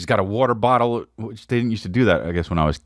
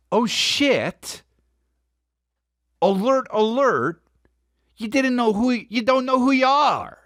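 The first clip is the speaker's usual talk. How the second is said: mock alarm; 11 semitones higher than usual. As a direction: sound the inner alarm in a raised, put-on voice.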